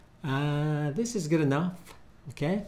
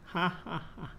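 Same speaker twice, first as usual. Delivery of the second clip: mock happy laugh; 6 semitones higher, 6 dB quieter, much faster than usual. Shown as a demonstration. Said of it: "Let's say a happy one".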